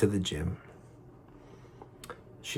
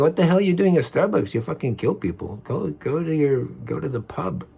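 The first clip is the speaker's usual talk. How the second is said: telling the attacker off in his head, raised pitch; imagined angry rant; 7 semitones higher than usual. Retold or imitated. To the man at Starbucks, an outraged high scolding. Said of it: "In my mind, I'm thinking".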